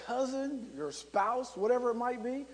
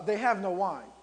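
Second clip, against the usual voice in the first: brisk, pointed statement; matter-of-fact, not timid. Retold or imitated. Mother telling Jesus the wine is gone, firmly stated. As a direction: state it firmly as a hint to act. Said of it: "the way she said it to me".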